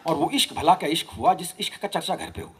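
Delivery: rhythmic, lilting verse recitation; poetry recital. Acted. Poet giving a playful reply to Faiz, rhythmic recital. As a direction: recite each line to a regular beat.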